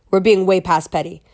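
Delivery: ordinary talk, nothing marked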